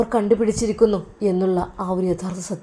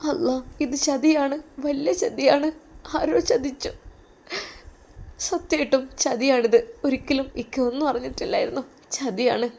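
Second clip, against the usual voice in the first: tearful lament; 4 semitones higher than usual. Acted. Sister laments betrayal.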